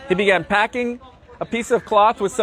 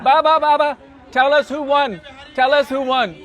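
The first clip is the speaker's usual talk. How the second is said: put-on pestering children; 5 semitones higher than usual. Children pestering Nanda Baba.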